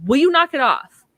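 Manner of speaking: loud high yell; shouting. Retold or imitated. O'Neill shouting at Ergo to stop, loud yell. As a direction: snap at him to knock it off. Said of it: "He shouts at Ergo".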